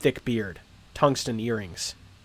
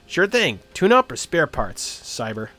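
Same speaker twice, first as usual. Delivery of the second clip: put-on Midwestern accent; 4 semitones higher, 3 dB louder than usual. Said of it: "loose Midwestern accent".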